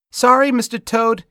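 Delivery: put-on high, loud child's call; little boy calling out. A narrator's reading. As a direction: call after the toad as a small boy. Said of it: "he called out".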